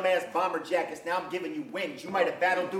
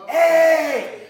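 whisper yelling; 6 semitones higher, 7 dB louder than usual. Retold or imitated. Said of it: "Whisper screaming like crazy".

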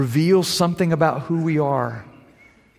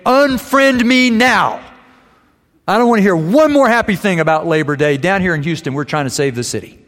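venting rant; 4 dB louder, faster than usual. Retold or imitated. Preacher friend venting online at people, exasperated outburst. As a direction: rant like a fed-up friend at his wits' end. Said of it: "he just vents".

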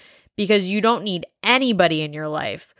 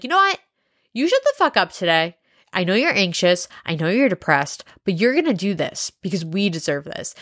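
mirror pep talk. Pretend. Speaker to her reflection, a firm pep talk. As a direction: tell yourself off, then rally. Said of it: "talk to yourself and be like".

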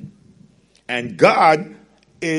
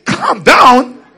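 much higher, loud disbelieving echo; incredulous; 10 semitones higher, 9 dB louder than usual. Real, not acted. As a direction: throw it back in disbelief. Incredulous repeat of mother.

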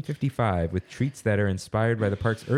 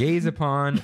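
put-on old-timey voice; 6 semitones higher than usual. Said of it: "it's not written that way".

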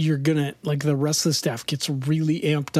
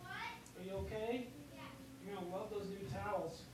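lowering phone to yell; 8 semitones higher, 16 dB quieter, faster than usual. Real, not acted. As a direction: call out, turned away from the phone. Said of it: "let me yell at my kids".

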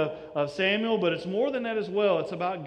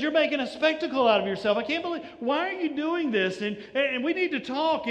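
fast, higher, indignant rebuke; a hint of a disapproving priest, quick and high; scolding priest; 5 semitones higher than usual. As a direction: scold her like a stern priest caught off guard. Eli scolds Hannah at temple.

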